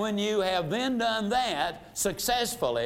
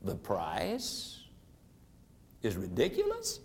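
much lower and softer, "ridiculous" lifting into a question; 11 semitones lower, 7 dB quieter than usual. Shown as a demonstration. Salesperson repeats the prospect's objection back, voice lowered. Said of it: "you simply lower your voice".

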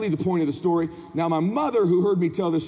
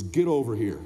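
low, commanding dad voice; stern father; 10 semitones lower than usual. Retold or imitated. Dad calls his son over, stern. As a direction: order the boy over in a low voice.

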